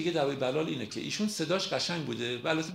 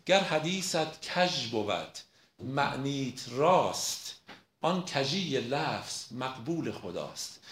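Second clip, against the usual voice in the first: slow, emphatic verse recitation; poem recitation; much slower than usual. Acted. Lecturer quoting Rumi to prove his point, slow poem recitation. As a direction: recite it slowly, stretching the stressed syllables.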